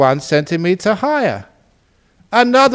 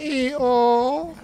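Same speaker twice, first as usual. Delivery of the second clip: high braying plea; donkey begging the farmer for compassion; pleading donkey; 10 semitones higher, much slower than usual. Acted. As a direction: bray out a plea for mercy. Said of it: "And poor donkey".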